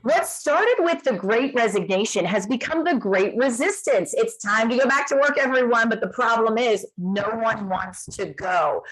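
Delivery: news anchor read. Acted. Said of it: "Anchor Lynn voice comes out".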